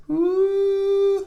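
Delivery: sudden very high squeaky woo; high harmonic woo. Shown as a demonstration. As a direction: flip up into a thin high squeak. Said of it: "there's a harmonic".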